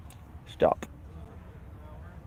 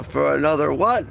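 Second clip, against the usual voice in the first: yawning; 2 semitones higher, 3 dB louder than usual. Real, not acted. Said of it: "That was yawn".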